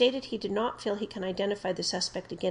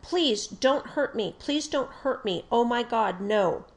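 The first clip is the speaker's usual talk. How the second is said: retold pleading yell; 3 semitones higher, 4 dB louder, slower than usual. Cornered suspect begging the officer, frightened pleading yell. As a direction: beg for mercy, louder. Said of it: "The suspect was yelling at this time".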